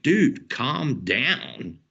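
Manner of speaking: slow calming retort. Retold or imitated. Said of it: "And I'm like".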